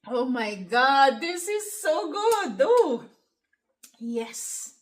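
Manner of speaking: swooning over the first bite; savoring delicious food. Real, not acted. Tasting her own sinigang.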